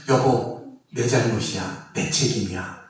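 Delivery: soft, low, tender "it's my fault, dear"; gentle apology. Retold or imitated. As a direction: say it softly, taking the blame lovingly. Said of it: "대화할 때도 문제가 생기면".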